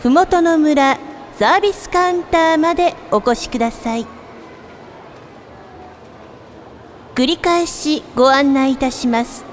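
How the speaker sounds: polite sing-song store paging voice; department store announcer. Acted. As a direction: page a customer over the store speakers.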